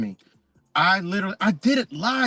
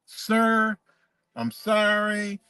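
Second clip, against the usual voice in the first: higher, slow, apologetic cop voice; imitating a polite checkpoint cop, pitched up and slow; polite officer; 5 semitones higher, slower than usual. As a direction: play the meek officer saying sorry. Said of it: "they're fucking just polite".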